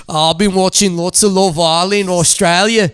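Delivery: put-on Aussie, conversational; Australian accent. The speaker explains his practice to the host in a mock-Australian accent. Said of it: "You're good at accents".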